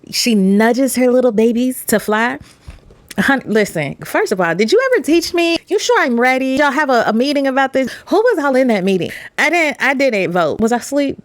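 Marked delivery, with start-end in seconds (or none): 3.2-11.2 higher, incredulous protest; higher pitch, outraged that nobody asked; indignant baby bird. Retold or imitated.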